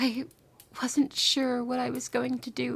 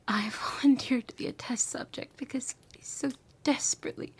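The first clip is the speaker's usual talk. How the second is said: tender whisper; 2 semitones higher than usual. Acted. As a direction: whisper it like a lover's confession.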